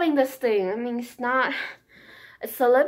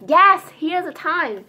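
higher, drawn-out exclamation of delight; excited cheer; 5 semitones higher, 4 dB louder, slower than usual. Retold or imitated. Shopper spotting a long-awaited product in store, excited. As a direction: stretch it out, thrilled at finally finding it. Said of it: "I'm just like".

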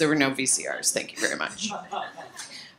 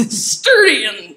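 laughing; 5 semitones higher, 9 dB louder, slower than usual. Real, not acted. Self-mocking about her looks.

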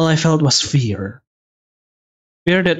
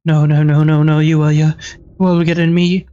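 frantic no no no, pushing back fear; panicked no. Acted. Reader voicing a character's panic, frantic rising no.

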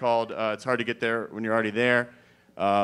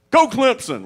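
much higher, loud yell; reflex cheer; 11 semitones higher, 7 dB louder than usual. Retold or imitated.

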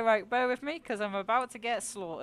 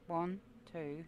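breathless whispered counting, softer; tense whisper; 4 semitones lower, 7 dB quieter than usual. Real, not acted. Streamer counting shots in fear, whispering. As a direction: count under your breath in suspense.

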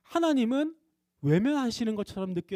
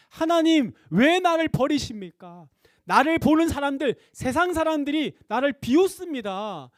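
louder, pleading lament, the opening cry slowed; lamenting cry to God; 5 semitones higher, 4 dB louder than usual. Retold or imitated. David in the psalm crying out to God, loud and pleading. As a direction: cry out to God as if mocked and abandoned.

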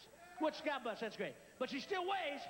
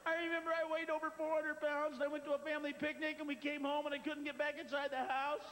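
tearful dieter. Retold or imitated. Guest telling Richard her weight story, a touch teary. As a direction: tell it like a proud, teary guest. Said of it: "She's going".

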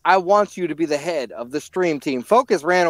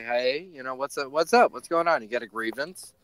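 lisp; 3 semitones lower than usual. Acted. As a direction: lisp every S sound. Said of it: "Why do you have a lisp?".

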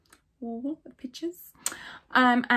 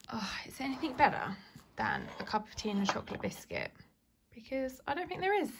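whisper; 6 dB quieter than usual. Real, not acted. Cozy tea break aside.

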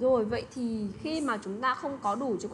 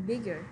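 "bigger" with BIG stressed, ger falling away; stress on first syllable. Shown as a demonstration. Teacher giving students another example, first-syllable stress on "bigger". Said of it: "đọc nhấn lên một chút".

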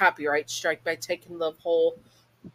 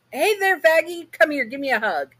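much higher and louder, gushing welcome; eager mom greeting; 11 semitones higher, 6 dB louder than usual. Acted. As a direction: throw your arms open with your voice. Mom greets daughter's girlfriend.

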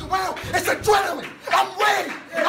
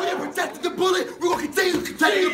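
shouting; 2 semitones higher, much faster than usual. Real, not acted. Player rallying teammates.

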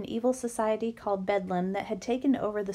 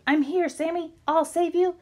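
louder and higher, heroic rescue cry; heroic call; 7 semitones higher, 5 dB louder than usual. A narrator's reading. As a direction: burst in shouting to the rescue. Boy bursts in to rescue.

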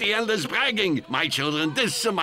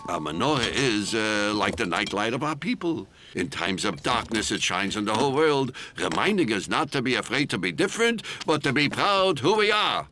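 gentle storytelling; 5 semitones lower than usual. Acted. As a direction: tell it tenderly to kids. Grandpa explains the menorah gently.

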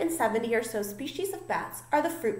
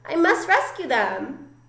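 louder, higher, slow and urgent; gasped resolve; 5 semitones higher, 5 dB louder, slower than usual. A narrator's reading. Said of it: "gasped Stella Luna".

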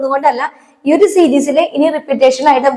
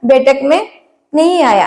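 slow model; slower than usual. Shown as a demonstration. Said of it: "okay, ആ".

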